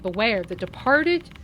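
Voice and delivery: lightly voiced solemn youth; mysterious boy. Boy gives solemn warning.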